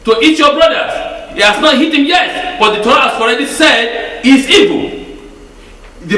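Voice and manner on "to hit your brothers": high urgent Stop, quick rebuke; sharp command. Acted. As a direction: halt him before the blow. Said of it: "when Moses said".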